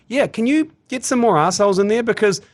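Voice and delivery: hammed-up plea to a cricket legend; mock outrage. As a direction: beg him in jest for villains. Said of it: "I was like".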